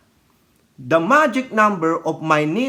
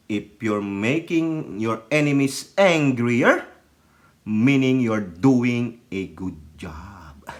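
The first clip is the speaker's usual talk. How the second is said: slow low quote; 8 semitones lower, slower than usual. Retold or imitated. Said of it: "sabi ni Pangulo".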